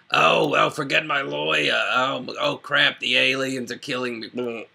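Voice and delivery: mock panic, playing a doomed movie character; panicky movie character. Podcaster mimicking Harvey Fierstein in Independence Day, mock panic. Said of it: "his role in, as the".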